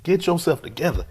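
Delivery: urgent self-talk. Retold or imitated. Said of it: "And like".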